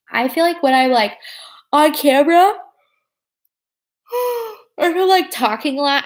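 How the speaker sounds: talking through a yawn; words stretched by a yawn. Real, not acted. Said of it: "I yawned when I saw you yawn".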